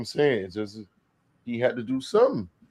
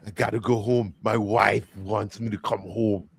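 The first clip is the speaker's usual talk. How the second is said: put-on German accent. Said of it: "He was saying".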